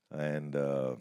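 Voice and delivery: usual speaking voice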